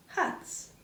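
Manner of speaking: breathy hushed whisper of the word; whispered reveal. Acted. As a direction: whisper it like a secret. Teasing reveal of the topic.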